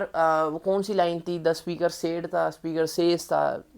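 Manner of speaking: soft, halting, searching for the line; student fumbling to recall the template; hesitant recall. Shown as a demonstration. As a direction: mumble as if trying to remember. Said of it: "अब हम याद कर रहे हैं कि यार".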